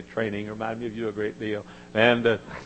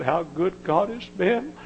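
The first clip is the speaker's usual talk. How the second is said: praising; slower than usual. Retold or imitated. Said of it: "praised him".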